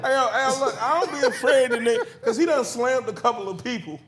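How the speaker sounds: wrestling promo. Acted. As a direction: boast like a wrestler on the mic. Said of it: "he's cutting his promo".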